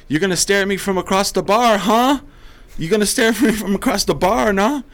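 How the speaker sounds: high, loud mock Norteño tough-guy challenge; Norteño gangster voice. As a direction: bark it like a Mexican-American Norteño thug picking a fight. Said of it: "That white guy gets Norteño really quick".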